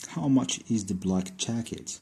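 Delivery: slow question with a rise on much; slow dictation. Shown as a demonstration. Teacher reading a new example question to students, slowly. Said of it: "مثال آخر ب how much".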